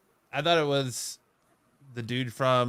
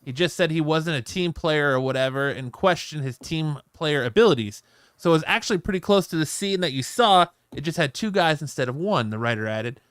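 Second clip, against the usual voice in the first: raised, emphatic article-reading voice; news read; 4 semitones higher, 4 dB louder than usual. Real, not acted. Host reads Deadpool cameo story to co-hosts, news read.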